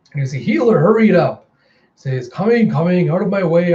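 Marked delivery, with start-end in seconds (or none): 0.4-1.5 raised, louder call; higher, pressing shout; urgent call. Retold or imitated. 2.3-3.7 bustling healer. Retold or imitated. Healer pushing through a crowd.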